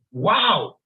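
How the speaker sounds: stunned wonder at a grand view; awed gasp. Retold or imitated. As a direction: let the word out in breath-stopped awe. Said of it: "you just gasp".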